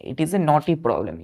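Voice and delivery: slow example repeat. Shown as a demonstration. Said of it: "जैसे हमने बोला".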